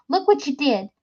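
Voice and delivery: screaming. Acted. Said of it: "Tilly screamed".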